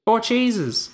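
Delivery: high excited cartoon voice; squeaky high voice. High put-on voice bit.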